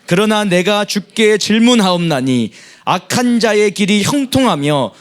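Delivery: steady, measured reading aloud; scripture reading. Acted. Congregation reading scripture aloud together, measured. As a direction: read the psalm together, evenly. Congregation reads Jeremiah's prayer.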